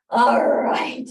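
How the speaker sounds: breathy gasped whisper after the squats; winded whisper after exercise; out of breath. Real, not acted. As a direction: puff it out, winded. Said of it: "Anybody else a little bit out of breath?".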